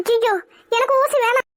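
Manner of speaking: frightened refusal of the needle. Acted. Patient refusing the nurse's injection, frightened. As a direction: plead in mild alarm. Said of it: "பயப்படாதீங்க madam".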